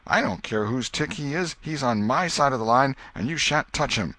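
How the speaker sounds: rising outrage, ready to fight; heated Joe. A narrator's reading.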